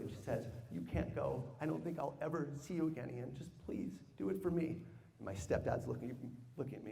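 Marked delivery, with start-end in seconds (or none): 0.7-4.8 a touch of tearful pleading, softer; mild retold sob-plea, quiet and pleading; understated mock crying of a worried mother; imitating crying mother. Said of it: "crying hysterically".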